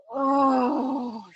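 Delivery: a drawn-out, quavering moan of longing. A narrator's reading. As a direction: moan it out, aching with desire. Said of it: "he moaned again".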